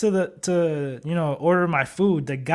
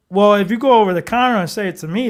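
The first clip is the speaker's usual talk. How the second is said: flipped-switch comeback; 3 semitones higher, 5 dB louder, faster than usual. Retold or imitated. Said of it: "I flipped the switch".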